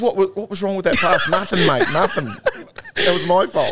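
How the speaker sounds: high voice breaking into laughter; retold sheepish exchange. Player owning a dropped pass to his teammate, laughing protest. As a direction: laugh through the mock confession.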